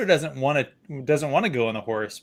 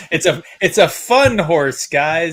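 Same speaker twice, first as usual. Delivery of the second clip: excited; 3 semitones higher, 6 dB louder than usual. Real, not acted. Gushing over the dainty horse.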